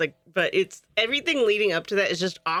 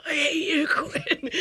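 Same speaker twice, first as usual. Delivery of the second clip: higher, lightly voiced villain line; mock Janet; 7 semitones higher, slower than usual. Retelling the movie to a co-host, a lightly voiced mock Janet. Janet quoted stabbing a clown.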